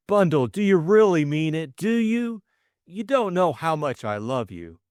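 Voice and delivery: high, eager confession, gaining courage; nervous suitor's rush of feeling; earnest young man. Acted. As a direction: blurt out love he has hidden for ages. Bill overjoyed.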